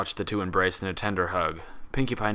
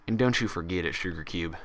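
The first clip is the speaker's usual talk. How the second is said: warm. Acted. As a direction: smile through it. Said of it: "a warm smile".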